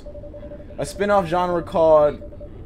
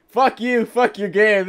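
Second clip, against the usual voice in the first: angry curse; 5 semitones higher than usual. Acted. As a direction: spit it at the developer. Hero curses the developer.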